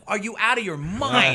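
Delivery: shocked disbelief. Retold or imitated. Comic telling a fan story, shocked disbelief. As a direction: react like he's lost his mind. Telling a drunk worker's confession.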